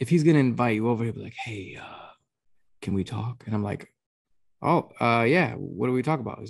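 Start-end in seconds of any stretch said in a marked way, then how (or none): 1.4-3.4 slow, breathy, mock-grave, ominous dramatic whisper. Imitating how the speaker's dad asks to talk, mock-dramatic tone. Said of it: "why does he sound like that?".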